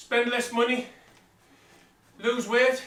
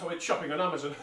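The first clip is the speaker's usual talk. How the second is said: laughing; 5 semitones lower, faster than usual. Real, not acted. Self-mocking joke about shopping.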